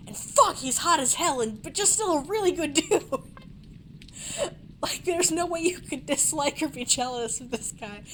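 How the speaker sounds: a touch of excited gushing. Real, not acted. Player gushing over the actor until told to chill. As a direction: gush about your idol. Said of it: "Adam, chill".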